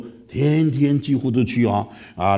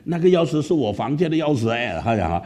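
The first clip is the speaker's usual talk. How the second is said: higher, scolding rant; angry pastor; 6 semitones higher than usual. Retold or imitated. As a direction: pastor scolds the boys about the key. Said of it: "他好生气的讲我了". (牧师生气地责备)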